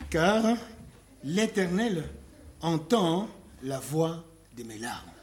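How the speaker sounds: slow, solemn reading of the verse; scripture reading. Real, not acted. Preacher reading Psalm six to the church, solemn. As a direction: read the psalm with weight. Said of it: "je vais lire la partie".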